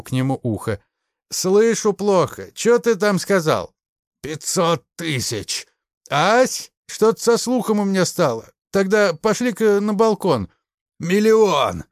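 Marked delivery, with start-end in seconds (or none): 1.3-10.5 higher, louder mocking pretend deafness. A narrator's reading. The major toying with his choking captive, mock deaf. 11.0-11.8 higher, louder desperate yell. A narrator's reading. Ignashevich yelling a bigger sum to the major. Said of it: "проорал Игнашевич".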